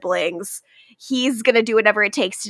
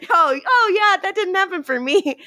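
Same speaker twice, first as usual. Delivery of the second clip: whiny mock voice; 8 semitones higher than usual. Echoing the whiny Fred line.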